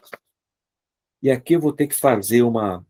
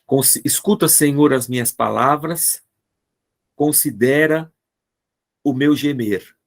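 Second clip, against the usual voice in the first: a little higher, read out as scripture; psalm reading; 3 semitones higher than usual. Shown as a demonstration. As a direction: lift it like a prayerful plea. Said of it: "o salmista fala assim".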